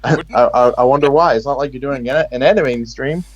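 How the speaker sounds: mock-puzzled sarcasm; sarcastic. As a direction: feign wondering why, after a small laugh. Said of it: "That was sarcasm".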